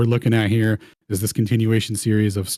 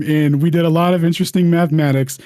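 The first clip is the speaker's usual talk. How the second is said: hammed-up posh English accent, high and loud; mock English accent; 5 semitones higher, 4 dB louder than usual. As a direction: play a jolly English gent, loud and high. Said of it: "narrate in my best English accent".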